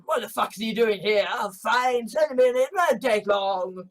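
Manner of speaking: loud, irritated boss brushing off a visitor; captain of industry. Acted. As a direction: bark it like an impatient tycoon, then wave it off. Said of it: "Scott's character ... is like".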